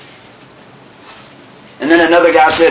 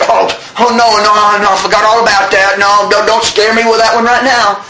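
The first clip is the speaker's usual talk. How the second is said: mock panic; 4 semitones higher, 3 dB louder than usual. Acted panic at reminder.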